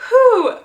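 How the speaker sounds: high loud exhale of relief; awkward-moment whew. Real, not acted. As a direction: blow out a big whew.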